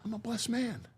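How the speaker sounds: mean every word of I'm a blessed man, gently; sincere. Real, not acted. Insisting to the host it's no shtick, softly sincere. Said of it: "It's not my shtick".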